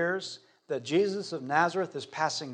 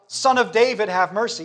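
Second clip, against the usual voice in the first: raised, louder plea for mercy; crying out; 5 semitones higher, 6 dB louder than usual. Acted. Blind beggar calling to Jesus, crying out. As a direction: call out over a crowd, high and loud. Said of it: "Bartimaeus cries out".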